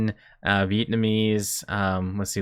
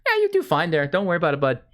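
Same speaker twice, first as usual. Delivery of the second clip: hammed-up Canadian twang, higher; Canadian accent; 8 semitones higher than usual. Canadian local giving directions to a stranger, hammed-up Canadian accent. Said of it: "my Canadian accent came out".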